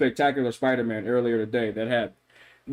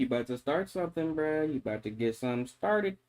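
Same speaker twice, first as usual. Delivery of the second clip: tough guy voice; 7 dB quieter than usual. Pretend. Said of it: "I have all the voices".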